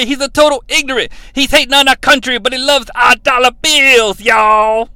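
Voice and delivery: a hint of high, fast ranting; lightly voiced rant; imitating Superstar Graham. Graham ranting about the Frenchman, lightly imitated. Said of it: "Superstar Billy Graham calls".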